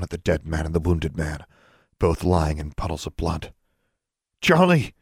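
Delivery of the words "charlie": high, raised call to a companion; hoarse call. A narrator's reading. Heroine calls her raven from the cliff top, hoarse call. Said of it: "she called hoarsely".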